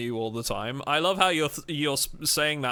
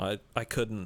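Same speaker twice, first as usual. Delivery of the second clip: ordinary delivery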